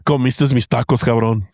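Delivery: joking as the Hat Man who is a creepy uncle; creepy tío. Pretend. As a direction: play the nosy, menacing uncle demanding answers. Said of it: "Creepy tío".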